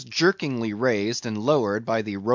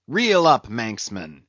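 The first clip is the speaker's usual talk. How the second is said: shouted order. Acted. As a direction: bark the order across the deck. Ahab shouting orders on deck.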